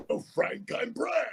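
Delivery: breathy high mock introduction; mom mimicking. Mom acting out how he should introduce himself, in a high mock voice. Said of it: "my mom was like".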